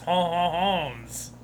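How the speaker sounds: hammed-up French hon hon hon; lightly voiced French hon hon; a hint of a cartoon French accent; mock French. Shown as a demonstration. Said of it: "my French accent".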